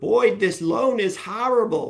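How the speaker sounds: put-on New Jersey accent, pitched very high. Recalling a mortgage client who called a year later, the speaker does her new jersey accent. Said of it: "she had that New Jersey accent".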